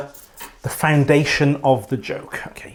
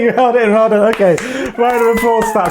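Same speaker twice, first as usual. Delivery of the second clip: high, loud, laughing praise; excited cheer; 6 semitones higher, 4 dB louder than usual. Real, not acted. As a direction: cheer them on, delighted.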